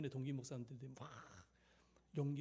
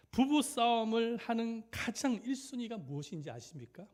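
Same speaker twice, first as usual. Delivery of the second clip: high, loud, projected preacher's question; ringing, raised-voice rhetorical question; emphatic loud question; 7 semitones higher, 9 dB louder than usual. Real, not acted. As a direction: throw the question out to the whole room. Preacher poses key question, then repeats.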